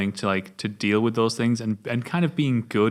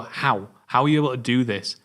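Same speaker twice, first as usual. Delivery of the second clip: builds higher and louder in disbelief; escalating awe, high and loud at the end; rising amazed rant; 5 semitones higher, 5 dB louder than usual. Retold or imitated. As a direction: rave with mounting amazement. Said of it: "You go".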